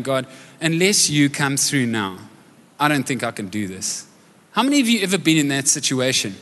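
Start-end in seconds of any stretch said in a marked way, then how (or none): 0.0-4.0 desperate prayer. Retold or imitated. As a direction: pray as if out of your depth. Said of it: "this overwhelming moment of crying out".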